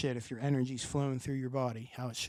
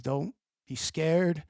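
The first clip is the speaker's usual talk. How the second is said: very slow, gentle reassurance; reassuring; much slower than usual. Retold or imitated. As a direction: slowly soothe a frightened loved one. Comforting late nephew in vision.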